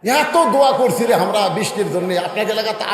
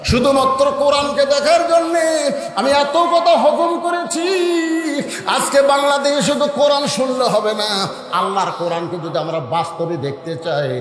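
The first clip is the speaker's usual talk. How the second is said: melodic preaching; 2 semitones lower than usual. Acted. Preacher voices Omar embracing the shepherd, melodic preaching. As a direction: chant the endings, then drive the lesson home.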